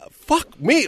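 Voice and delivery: high-pitched, incredulous echo; baffled disbelief, voice leaping up; shocked confusion. Retold or imitated. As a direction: imitate a stunned old boss. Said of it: "they have a look of confusion".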